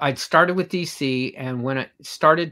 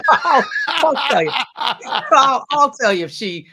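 mock bluster; 10 semitones higher, 8 dB louder, slower than usual. Grant teasing about wife's Scottishness.

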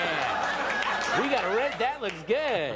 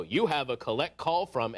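recorded operator; 4 semitones lower than usual. Retold or imitated. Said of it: "it was a recorded thing where it would go".

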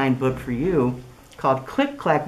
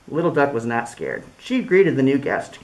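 lively storybook voice with big swings; reading to children. Acted. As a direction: read it like story time for little kids. Reads picture book aloud.

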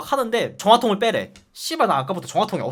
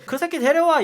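mock angry order; 8 semitones higher, 4 dB louder than usual. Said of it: "이러는 거야".

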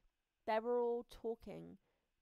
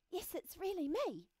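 happy confirmation; 9 semitones higher than usual. Acted. Butterfly happily confirms who it is.

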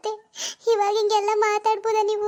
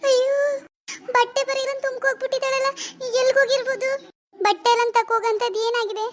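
put-on high, anxious young woman calling for her missing sister; frantic elder sister; 6 semitones higher than usual. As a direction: panic rising as she searches the house. Worried elder sister searching. (ಆತಂಕದಿಂದ ತಂಗಿಯನ್ನು ಹುಡುಕುವ ಅಕ್ಕನ ಧ್ವನಿ)

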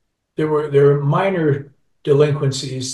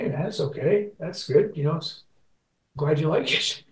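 higher, gentle mock-reassuring voice; retold reassurance; 4 semitones higher than usual. Singer to a fan tearing up, retold gentle reassurance. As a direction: replay an awkward attempt to console.

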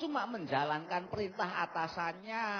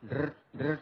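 vibrating buzz; 9 semitones lower than usual. Shown as a demonstration. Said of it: "marah dengan sistem getar".

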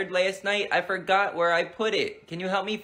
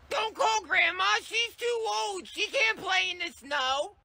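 put-on high kid voice objecting; protesting little boy; 11 semitones higher than usual.

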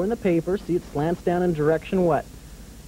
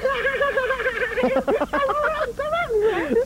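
puppet giggle. Acted. Puppet dragon laughs at joke.

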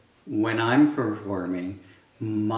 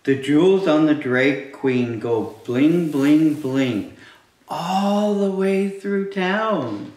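loud, punchy storytime read; reading to children; 3 semitones higher, 5 dB louder, slower than usual. Acted. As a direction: belt each bling out. Reading picture book aloud to kids.

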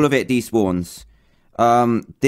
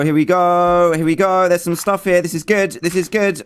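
rising, higher-pitched eagerness; hopeful excitement; 5 semitones higher than usual. Real, not acted. Gamer spotting the dropped items, hopeful excitement. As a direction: build excitement as the find appears.

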